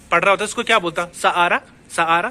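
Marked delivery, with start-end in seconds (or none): 1.1-1.6 सहारा as "sa-aa-raa", no H; silent H. Shown as a demonstration. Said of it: "अगर मैं Spanish होता". 1.9-2.3 सहारा with H left out; silent H. Shown as a demonstration. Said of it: "क्योंकि एच silent कर रहा हूँ".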